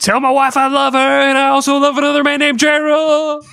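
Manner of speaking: high, loud melodramatic deathbed plea; dramatic dying words. Acted. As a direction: ham up a dying man's last words. Mock dying last words.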